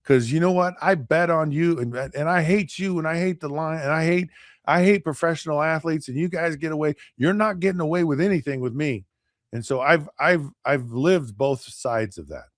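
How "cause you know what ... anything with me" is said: higher-pitched mock rant; hostile fan. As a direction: imitate a traffic cop ranting resentfully. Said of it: "and the dude goes".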